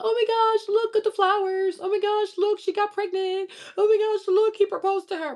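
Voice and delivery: high squealing gush over every little thing; mock a woman gushing about flowers and proposals; gushing women. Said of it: "When most women are sitting here clapping".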